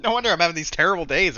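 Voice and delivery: rushed, laughing through the words. Real, not acted. Trader laughing off his terrible days, fast and amused. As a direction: chuckle at your own misery. Laughs at own bad week.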